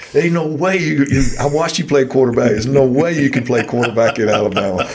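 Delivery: giggly, breaking into laughter mid-quote; laughing through a quote. Real, not acted. Laughing retelling Archie's words.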